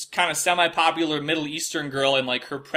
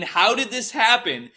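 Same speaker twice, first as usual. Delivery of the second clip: slow, raised, wondering question; slow disbelief; 7 semitones higher, slower than usual. Retold or imitated. Alone in a motel, stunned by the news coverage, slow disbelief. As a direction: ask it slowly, half dazed. Watching CNN call him shooter.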